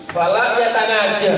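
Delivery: slow, deliberate Arabic, stressing yatanaja; careful Arabic recitation. Shown as a demonstration. Teacher reciting Arabic slowly for students, careful pronunciation. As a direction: spell out yatanaja syllable by syllable. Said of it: "Tanaja itu adalah bisik-bisik".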